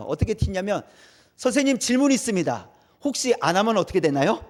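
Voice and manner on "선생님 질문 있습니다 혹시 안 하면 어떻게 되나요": lightly voiced cheeky pupil asking; a hint of a smart-aleck kid; cheeky student. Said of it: "튀는 아이들이 있어요". (살짝 흉내 낸 까부는 학생)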